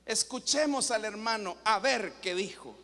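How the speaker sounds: sarcastic, superior invitation to listen; arrogant, mock-polite sarcasm; ironic, sarcastic. Shown as a demonstration. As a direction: introduce him with condescending irony. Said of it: "Con ironía, con sarcasmo, prepotencia".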